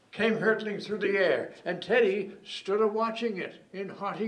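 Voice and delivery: mock-epic ballad recited with measured build; dramatic poem recital. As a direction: build from hushed narration to a ringing delivery.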